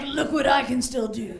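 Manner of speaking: put-on older guy boasts loudly, laughing; proud shout. Older guy bragging about himself, loud proud shout. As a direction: shout it like a proud old man. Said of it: "Older guys are like".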